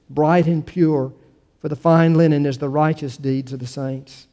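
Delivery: measured, solemn public Bible reading; scripture reading. Acted. Pastor reading scripture to the congregation, measured and declamatory. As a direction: read it out with emphatic phrasing.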